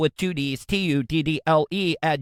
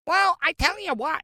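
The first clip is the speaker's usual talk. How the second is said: much higher, squeaky attempt at a British accent; bad British accent; 12 semitones higher than usual. Mocking David Beckham's voice after a match, failed British accent. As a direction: mimic David Beckham's high British voice, badly. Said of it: "I almost sound like a munchkin person".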